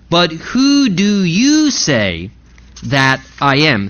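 slow question, leaning on "you"; stress on "you". Acted. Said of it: "the emphasis truly there is on the word you".

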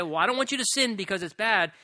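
rattled off fast, offhand; brisk throwaway line; quick dismissive quote. Shown as a demonstration. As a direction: toss it away quickly as the wrong version. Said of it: "God doesn't say".

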